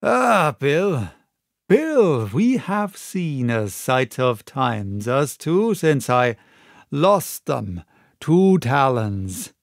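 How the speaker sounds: easy smug drawl; sly pirate. Acted. Black Dog growing at ease with the captain, slow and smug.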